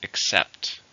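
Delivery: "Except" with the weight on CEPT; stress on second syllable. Shown as a demonstration. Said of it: "stress in the second".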